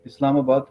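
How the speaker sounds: "Islamabad" repeated as a model for the learner; correct pronunciation. Shown as a demonstration. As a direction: say "Islamabad" plainly and surely, as locals do. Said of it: "the real pronunciation for that is".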